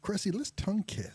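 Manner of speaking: Welsh with a hint of Indian; a light Welsh lilt; Welsh accent. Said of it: "That's a really good Welsh accent".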